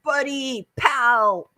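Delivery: playful caricature of male chumminess; mock guy talk. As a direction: parody how guys greet each other. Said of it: "You know how guys are like".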